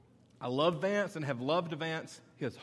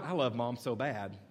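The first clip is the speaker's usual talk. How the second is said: put-on kid voice echo; 3 semitones lower than usual. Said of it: "and not".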